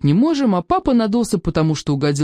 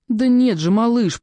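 higher motherly reassurance; soothing; 7 semitones higher, slower than usual. A narrator's reading. Mother calms whimpering youngest at the table, soothing. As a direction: hush the little one's worry with lifted pitch. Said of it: "принялась успокаивать его мама".

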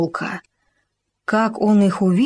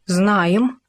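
puffed-up. Acted. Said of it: "надул щёки суслик".

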